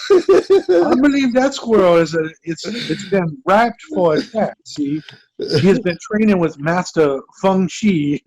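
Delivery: slow mock Southern drawl; hammed-up Alabama accent; bad Southern accent. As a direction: play along as a Southern yokel. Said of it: "I'm gonna do my bad accent again".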